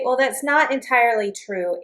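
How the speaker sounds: NOT slightly stressed, polite falling tune; soften with not. Shown as a demonstration. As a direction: gently push the word not to soften disagreement. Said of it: "put it in a negative to emphasize".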